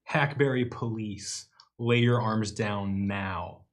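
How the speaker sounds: slow, magically amplified call; booming voice. Acted. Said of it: "triple the volume of my voice".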